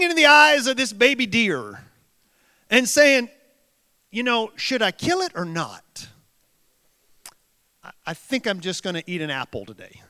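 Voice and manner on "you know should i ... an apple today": softer, mock-thoughtful tiger; a tiger talking itself out of the kill; pondering tiger, soft. Preacher joking about a vegan tiger, soft and fast. Tiger's imagined dilemma voiced.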